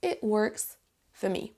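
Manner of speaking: slow WORKS with an 'uh' vowel, weak FOR; measured demo, WORKS as 'wurks'; model pronunciation. Shown as a demonstration. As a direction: say 'works for me' with FOR reduced to 'fuh'. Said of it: "vous allez entendre".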